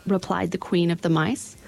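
high, squeaky little queen, kindly; a tiny queen helpfully advising; mouse queen. A narrator's reading. Queen of the Mice speaks.

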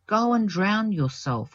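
a hint of a cruel nun; understated heartless retort. A narrator's reading. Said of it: "was the heartless reply".

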